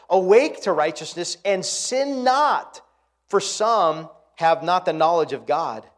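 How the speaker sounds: loud, slow preaching of the verse; booming pulpit reading; forceful scripture reading. Acted. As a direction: proclaim the verse slowly and loud.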